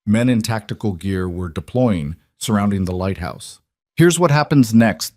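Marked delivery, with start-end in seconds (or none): 3.9-5.2 loud, menacing machine voice; threatening robotic caller; mechanical voice. A narrator's reading. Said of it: "the voice continued".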